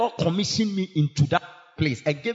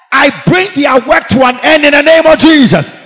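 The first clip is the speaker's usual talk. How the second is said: higher louder command; 7 semitones higher, 9 dB louder than usual. Real, not acted.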